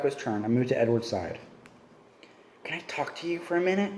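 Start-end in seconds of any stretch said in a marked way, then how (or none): 2.6-3.9 hissed. A narrator's reading. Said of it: "I hissed under my breath".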